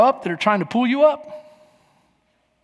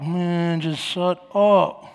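sulky grumble; 3 semitones lower, 4 dB quieter, slower than usual. Retold or imitated. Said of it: "You're like".

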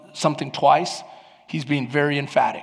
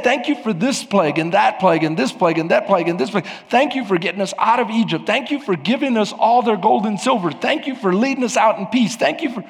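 raised-pitch, driving list of thanks; preached thanksgiving litany; 7 semitones higher, 4 dB louder than usual. Acted. Preacher voicing what Israel could have said, fervently listing thanks. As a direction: roll through each thank-you with momentum.

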